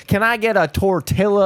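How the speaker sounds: hammed-up English accent on Spanish; English-accented Spanish word. Shown as a demonstration. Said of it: "like, an English accent".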